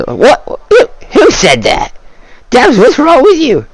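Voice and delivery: high, puzzled goblin voice; two goblins calling out, confused; suspicious goblins. Acted. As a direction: goblins squinting at their mate. Both the goblins.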